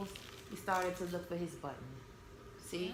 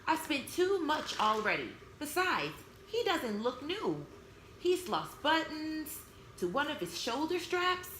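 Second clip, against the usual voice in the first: tired mother; 5 semitones higher than usual. Acted. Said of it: "her mother sighed".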